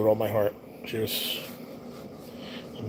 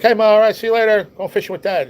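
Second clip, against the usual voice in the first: high, loud holler to Ma; retold yell through the house; called-out goodbye; 9 semitones higher, 7 dB louder than usual. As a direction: shout a goodbye as you leave. Calls goodbye to mother while leaving.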